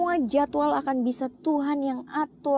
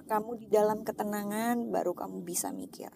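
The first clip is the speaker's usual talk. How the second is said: whispered, unvoiced and soft; hushed inner voice; 6 dB quieter than usual. God's quiet answer to her prayer, whispered. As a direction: breathe it like a secret answer.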